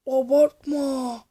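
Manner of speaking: Abartma stretched slowly, every syllable long; drawn-out disbelief. Real, not acted. Vlogger to the stunt rider, slow drawn-out Abartma. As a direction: draw out Abartma as if you can't believe it. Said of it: "Oha oha abartma".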